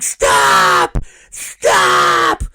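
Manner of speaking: put-on loud panicked kid yell; kid yelling stop. Little boy chased by his brother, loud yelling stop. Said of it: "And Major's like".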